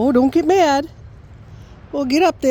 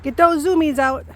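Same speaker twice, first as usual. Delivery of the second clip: high cheering; 5 semitones higher than usual. Real, not acted. Cheering dog's zoomies.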